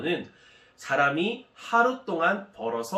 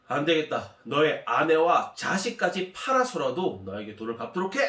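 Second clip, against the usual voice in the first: firm, forceful master's order; stern command. Acted. Master orders the servant to sell his family, stern and forceful. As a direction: lay down the law without budging. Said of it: "강력하게 이야기를 했습니다".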